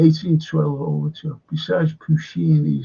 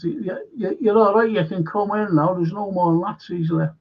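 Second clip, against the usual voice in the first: mock-obliging, starting higher, then settling; sarcastic; 3 semitones higher than usual. Mimicking Americans let in after the fighting, lightly sarcastic. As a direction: sarcastically wave them in, lightly acted. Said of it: "I know I'm being sarcastic".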